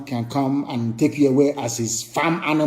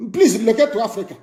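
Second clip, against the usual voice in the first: mock begging; 4 semitones higher, faster than usual. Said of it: "They are begging them".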